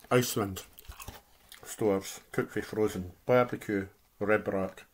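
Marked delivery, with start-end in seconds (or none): 3.3-4.8 talking while chewing; words round a bite of food; mouth full. Real, not acted. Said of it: "Sorry, I'm speaking with my mouth full".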